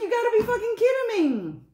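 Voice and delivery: high, loud mock-outraged squeal; incredulous outcry. Streamer retelling outrage at the watch's count, high incredulous squeal. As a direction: squeal it in comic disbelief.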